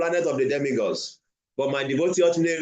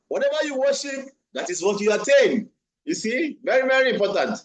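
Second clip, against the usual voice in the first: emphatic preaching; 7 semitones higher than usual. Real, not acted. Emphatic preaching of key point.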